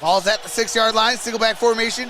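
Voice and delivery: steady live play-by-play, narrating each snap; play-by-play call. Acted. Streamer calling the drive for his viewers, in live play-by-play. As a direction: call the game like a TV announcer.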